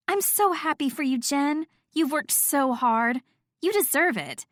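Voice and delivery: high, gushing congratulations; delighted. A narrator's reading. Friend congratulates Jen on her new job, delighted. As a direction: pitch it up, thrilled for a friend. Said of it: "Nat's eyes lit up".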